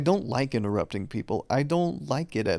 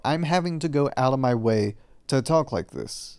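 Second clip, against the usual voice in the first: deliberately projected, effortful talk. Shown as a demonstration. Vlogger showing the voice they go out of their way for, projected. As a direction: push the voice out so it carries. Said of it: "how I'm talking right now".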